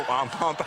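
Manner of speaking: imitating Pac-Man's chomp, lightly voiced; Pac-Man chomp noise. Invigilator playing Pac-Man, lightly imitated chomp. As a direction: chomp like the arcade game. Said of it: "they go".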